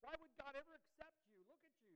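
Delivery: high, loud sneer; mocking, contemptuous accusation; scornful world. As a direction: jeer at the listener like the world does. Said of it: "that's what the world says".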